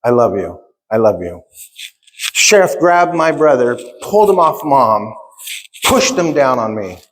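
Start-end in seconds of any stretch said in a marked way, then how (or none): 0.0-1.4 low, tender repeated reassurance; retold loving mother. Mom hugging her handcuffed son, low and tender. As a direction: imitate a mother's tender words, pitch well down. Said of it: "My mom's hugging him saying".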